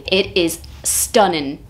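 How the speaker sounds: put-on a light northern English accent, slowed. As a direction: drop into a slow northern English lilt. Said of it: "I did a northern accent".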